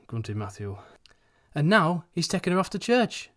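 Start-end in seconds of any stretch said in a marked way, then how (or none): 1.5-3.3 triumphant conclusion. A narrator's reading. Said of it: "concluded Missus Denison".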